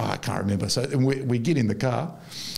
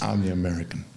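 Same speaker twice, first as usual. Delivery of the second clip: Clint Eastwood-like drawl; 4 semitones lower, faster than usual. Retold or imitated. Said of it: "That's how he talks".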